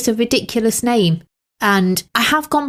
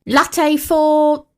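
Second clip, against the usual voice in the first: higher, drawn-out café call; calling out order; 4 semitones higher than usual. Acted. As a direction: call it out as a barista would.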